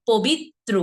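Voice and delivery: পবিত্র as "pobit-tro"; দ্বিগুণ ত. Shown as a demonstration. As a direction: double the t in পবিত্র. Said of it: "তারপর আবার কি, ত্র". ("পবিত্র" বলো পবিত্-ত্র)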